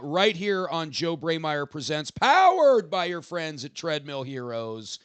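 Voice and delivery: slow announcer plug; wrestling promo. Acted. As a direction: hype the next show slowly. Hosts a show plug.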